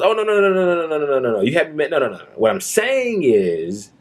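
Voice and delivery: mock a cop scrambling to deny it; mocking the sergeant. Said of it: "the sergeant, goes".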